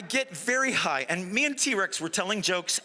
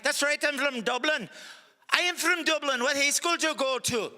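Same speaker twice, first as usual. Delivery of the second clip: excited Irishman; 6 semitones higher than usual. Acted. Excited Irishman finds fellow Dubliner.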